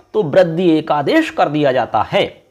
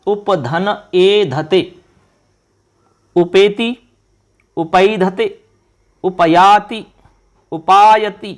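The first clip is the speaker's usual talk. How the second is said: slow dictation; much slower than usual. Shown as a demonstration. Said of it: "बताना है कि क्या रूप बनेगा".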